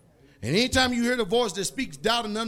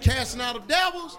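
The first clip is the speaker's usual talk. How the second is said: preaching shout; 6 semitones higher, 5 dB louder than usual. Acted. Preacher shouts about deliverance.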